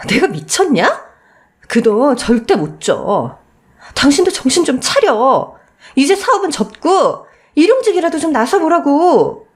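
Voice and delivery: slow, firm refusal building to a scold; scornful refusal. Acted. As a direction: throw his request back at him. Wife refuses money, scolds husband.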